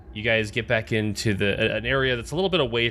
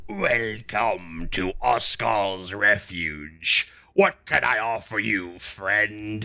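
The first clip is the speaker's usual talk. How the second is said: slow, drawn-out bartender welcome; bartender's voice; slower than usual. Acted. Tumbleweed welcomes the party to the refuge, mimicking a bartender. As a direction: greet customers like a barkeep, taking your time. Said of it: "sounds almost exactly like the bartender".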